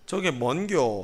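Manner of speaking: polite question with Gyeongsang intonation; polite Gyeongsang dialect. Shown as a demonstration. Pastor shows the polite form, Gyeongsang accent. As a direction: ask it as a Gyeongsang local would. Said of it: "저기 존댓말로 하면요".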